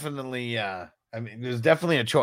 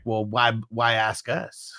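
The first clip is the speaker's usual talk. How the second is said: mock coy; 3 semitones lower, 3 dB quieter, slower than usual. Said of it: "playing it real coy".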